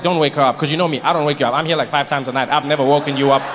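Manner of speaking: calm him down gently; reassuring. Retold or imitated. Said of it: "Then I was like".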